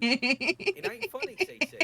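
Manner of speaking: high, loud, slow whine; a real high-pitched moaning protest; whiny protest. Real, not acted. Protesting while partner laughs.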